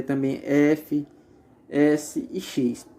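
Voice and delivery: "F", "S" and "X" said slowly, each one held long; drawn-out voiceless sounds. Shown as a demonstration. Teacher showing students voiceless consonants, slow and drawn out. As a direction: draw out "F", "S" and "X" so no voicing is heard. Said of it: "quando não há vibração das cordas vocais".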